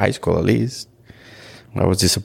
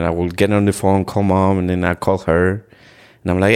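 normal talking voice

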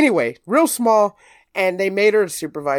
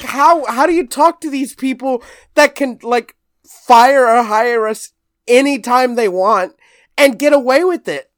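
retold disbelief; 7 semitones higher, 5 dB louder than usual. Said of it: "I'm like".

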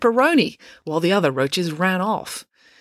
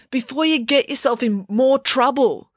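raised-pitch warning call; 8 semitones higher than usual. A narrator's reading. Joe warns April from the stand, calling out. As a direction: warn her from a distance. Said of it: "called Joe".

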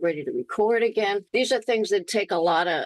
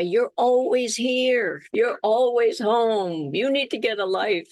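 teasing nag; 4 semitones higher than usual. Retold or imitated. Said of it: "We used to say".

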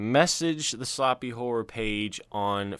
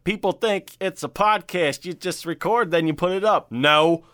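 exasperated; 4 semitones higher, 3 dB louder than usual. Real, not acted. Complaining about editing work.

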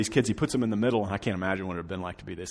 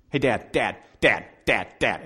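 put-on pestering child; 6 dB louder than usual. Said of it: "annoying age where everything's a question".

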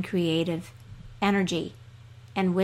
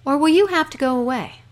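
high, bright-eyed little dog voice, higher and louder; a small dog pestering his master with questions; eager dog; 7 semitones higher, 6 dB louder, faster than usual. Acted. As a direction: puppyish high voice, pleading. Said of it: "asked the dog".

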